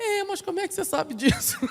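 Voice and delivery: high, amazed woman's voice with a laugh.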